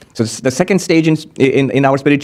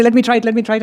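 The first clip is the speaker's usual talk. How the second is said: eager plea; 7 semitones higher, much faster than usual. Acted. Others eager to count.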